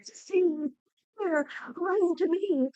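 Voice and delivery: high, sweet luring voice; falsely friendly voice. Acted. Viper luring Eurydice, high falsely sweet voice. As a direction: coax her in like a friend. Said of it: "what she thought was a friendly voice".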